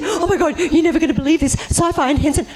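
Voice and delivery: high, gushing with a laugh; excited news. Retold or imitated. Telling a friend her big news, excited and laughing. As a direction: blurt out the unbelievable news, laughing.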